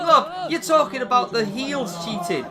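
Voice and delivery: loud, high complaint to the referee; indignant protest. Real, not acted. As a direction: demand action from the ref at full voice. Berating referee over illegal man.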